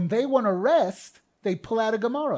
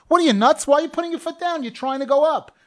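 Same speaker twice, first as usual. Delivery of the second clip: much higher and louder, mock disbelief; incredulous objector; 9 semitones higher, 7 dB louder, faster than usual. Rabbi voicing a doubter who scoffs at stepping down, incredulous. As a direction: play the scoffing skeptic who thinks it's crazy. Imagined objector mocks the step.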